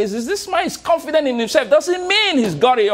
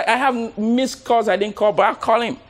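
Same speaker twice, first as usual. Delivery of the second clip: ordinary delivery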